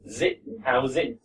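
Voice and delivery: "zit, how's it?" slowly, the s linked into "it" like a z; linked z sound. Shown as a demonstration. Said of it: "it kind of is a z".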